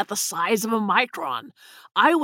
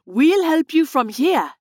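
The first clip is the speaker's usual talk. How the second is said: higher, drawn-out exclamation; slow, raised-pitch exclamation; exclaiming; 7 semitones higher, 4 dB louder than usual. A narrator's reading. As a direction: call it out with emphasis, taking your time. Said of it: "Lily exclaimed".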